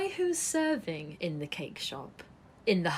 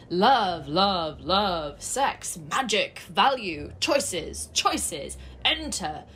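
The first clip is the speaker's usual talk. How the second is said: reading the sign aloud; 5 dB louder, much slower than usual. Acted. Reading a flashing sex sign.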